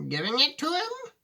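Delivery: put-on high, astonished old man; a stunned grandfather; gasped surprise. Grandpa Joe reacting to Wonka's gift, high and amazed. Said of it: "gasped Grandpa Joe".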